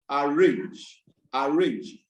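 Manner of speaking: ARRANGE with the stress on RANGE; stress on last syllable. Shown as a demonstration. Teacher giving students examples of verbs, last-syllable stress. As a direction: push the second syllable of arrange. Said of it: "the stress will be on the last syllable".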